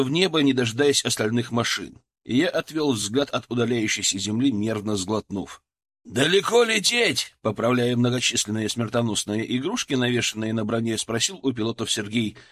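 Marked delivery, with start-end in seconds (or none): 6.0-7.4 громкий высокий вопрос сквозь шум; прокричите сквозь грохот винтов; перекрикивая шум винтов. Acted. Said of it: "перекрикивая шум винтов". (медленный громкий окрик)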